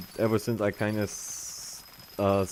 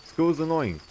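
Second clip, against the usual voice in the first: complaining; 8 semitones higher, 5 dB louder than usual. Retold or imitated. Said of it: "a thing that I might say".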